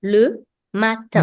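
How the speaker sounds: Le matin drawn out slowly, nasal in; teacher says le matin for students to repeat, slow and clear; slow French model. Shown as a demonstration. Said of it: "Repeat after me".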